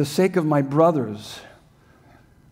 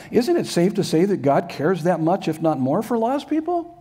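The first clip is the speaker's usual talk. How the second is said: pleading question climbing much higher at the end; rising appeal; 4 semitones higher than usual. Shown as a demonstration. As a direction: push "people" up high, asking them to agree. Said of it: "here's your next statement".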